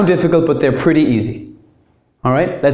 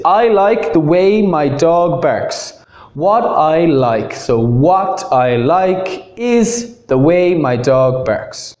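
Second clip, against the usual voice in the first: slow, deliberate reading; slow model sentence; much slower than usual. Shown as a demonstration. Teacher reading an example sentence slowly. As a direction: read it out slowly for the class. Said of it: "Same with this".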